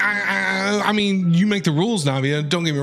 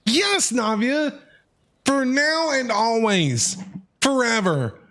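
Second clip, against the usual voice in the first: slow, higher, hammed-up tender promise; mock romantic vow; 3 semitones higher, slower than usual. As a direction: play the devoted partner, drawn out. Answering Navia as her partner.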